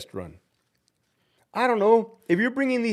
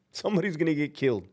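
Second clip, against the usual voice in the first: laughing repeat; 5 dB quieter, faster than usual. Real, not acted. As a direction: repeat it softer, through a laugh.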